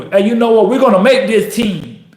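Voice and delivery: fired-up team pep talk; emphatic, rallying determination; commanding self-talk. Acted. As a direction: tell the doubting voice how it's going to be. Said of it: "You tell it what we're gonna do".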